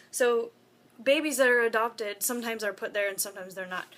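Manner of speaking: talking through hiccups; holding back hiccups mid-sentence. Real, not acted. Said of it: "I have the hiccups".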